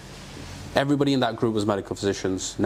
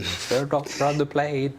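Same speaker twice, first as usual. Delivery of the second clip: lightly mimicked slow, raised announcement; cabin announcer; 4 semitones higher, slower than usual. Guest echoing the call for a doctor, light announcer imitation. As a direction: put on a slightly drawn-out cabin call.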